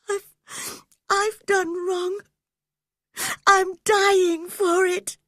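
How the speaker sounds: high, breaking voice through sobs; sobbing. Acted. Catherine confessing her wrong to Heathcliff, sobbing. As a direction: confess it weeping. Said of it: "sobbed Catherine".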